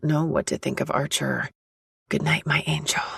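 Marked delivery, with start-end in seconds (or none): 2.1-3.0 whispering. Acted. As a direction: whisper goodnight to a sleeping child. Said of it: "I whisper to her".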